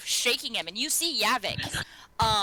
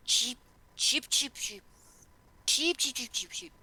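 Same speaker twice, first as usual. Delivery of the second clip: lightly voiced chirps; 3 semitones higher, 3 dB quieter than usual. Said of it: "turns around to the little spider and goes".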